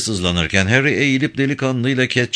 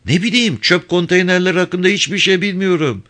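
put-on high, intimidated young man's voice; cowed and defensive, pitched way up; frightened clerk; 9 semitones higher than usual. A narrator's reading. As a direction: plead ignorance in a high pitch. Intimidated clerk pleads ignorance.

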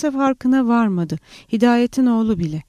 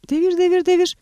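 higher, driving shouted chant; shouting; 8 semitones higher, faster than usual. A narrator's reading. Young agha yelling at the workers to feed the thresher, high shout. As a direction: cry it out high to keep the pace going. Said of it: "diye bağırdı".

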